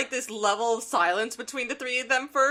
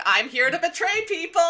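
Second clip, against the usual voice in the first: Sideways; 7 semitones higher, 4 dB louder than usual. Retold or imitated. Voicing Sideways announcing his treachery.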